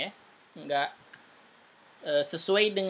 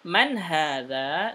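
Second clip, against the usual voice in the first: slow Man hadha? rising at the end; question tune; much slower than usual. Shown as a demonstration. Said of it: "ini baru pertanyaan".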